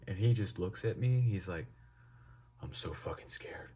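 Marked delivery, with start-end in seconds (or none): 2.6-3.7 hushed, voiceless confession of fear; scared whisper. Retold or imitated. Zoned-out friend answering the teller, scared whisper. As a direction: whisper it like you are frozen with fright.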